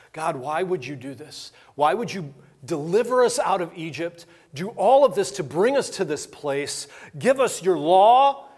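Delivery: Moses pleading. Retold or imitated. Moses begging God to spare his people, rising in pleading. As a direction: beg as Moses building to a cry. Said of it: "Moses pleads to God".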